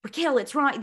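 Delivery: imitating him with a light Australian accent; loosely done Australian quote; mild Australian accent. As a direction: put on a slight Australian lilt. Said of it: "a mild Australian accent".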